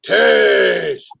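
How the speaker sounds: a hammed-up Russian accent, one clipped word. Shown as a demonstration. Host shows buddy how to say Taste in a Russian accent. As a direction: say Taste with a heavy Russian accent, the T hard and aspirated. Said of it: "you gotta say it with a Russian accent".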